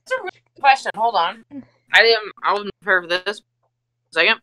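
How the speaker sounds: talking through a mouthful of candy; mouth full. Real, not acted. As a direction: mouth stuffed with Starburst, still talking. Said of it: "My mouth is so full of Starburst".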